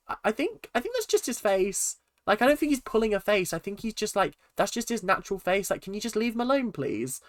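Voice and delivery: high, pleading defence of a friend; imitating Cass. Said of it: "Cass was like".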